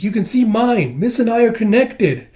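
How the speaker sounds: pleading like an anxious small creature; Kippa's voice. Retold or imitated. Kippa begging Master Ren to help Miss, high pleading voice. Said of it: "It's like".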